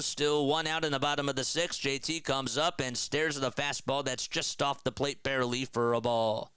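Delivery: lively baseball play-by-play call. Acted. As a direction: call the action like a broadcaster. Streamer calls the game.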